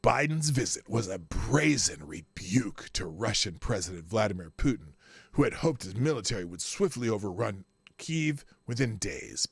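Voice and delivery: mock-dramatic whispered news read. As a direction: read it like a dramatic trailer, hushed. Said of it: "it's very dramatic".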